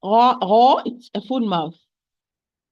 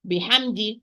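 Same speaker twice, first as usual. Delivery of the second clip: rushed take. Shown as a demonstration. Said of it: "Do not run".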